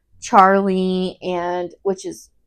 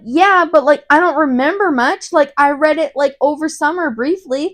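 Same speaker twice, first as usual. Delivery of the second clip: defensive protest; 4 semitones higher than usual. Retold or imitated. Retells Harry protesting to Snape.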